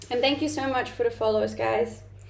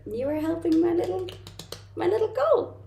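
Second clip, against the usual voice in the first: a bright lift up to goal; excited; 8 semitones higher than usual. Real, not acted. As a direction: pitch climbing high on little goal. Thanking followers for reaching her goal.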